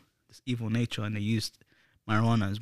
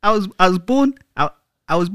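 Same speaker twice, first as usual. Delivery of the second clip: halting attempt at a Scottish accent; bad Scottish accent; 5 semitones higher, 3 dB louder than usual. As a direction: stumble into a shaky-footed fake Scottish accent. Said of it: "I'm pretty bad with accents".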